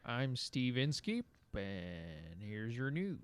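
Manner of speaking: slow, measured news anchor read; newscaster voice. Pretend. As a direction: read it like a public radio anchor. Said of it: "what's your newscaster name".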